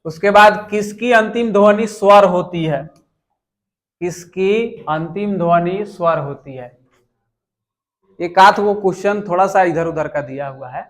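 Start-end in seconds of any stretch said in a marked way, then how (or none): 4.0-6.8 slower, measured re-reading of the question; slow repeat. Real, not acted. Teacher repeating an exam question for students, slowly. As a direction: read it out slowly, phrase by phrase.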